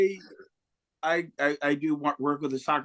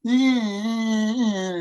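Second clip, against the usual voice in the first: leering catcall; 6 semitones higher, 3 dB louder, much slower than usual. Retold or imitated. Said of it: "You don't need to be like".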